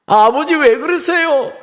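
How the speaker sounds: pretend-groggy boy's high protest; startled son. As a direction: act surprised at being woken. Son pretends to just wake.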